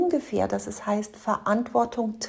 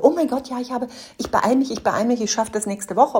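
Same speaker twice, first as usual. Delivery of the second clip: flustered apology; 2 semitones higher, faster than usual. Retold or imitated. Mocking a hasty apology promise.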